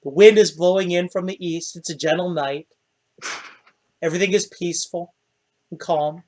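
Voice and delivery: hushed, peaceful night narration; game master's scene setting. A narrator's reading. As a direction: lull them with a soft, calm scene. Game master sets a calm scene.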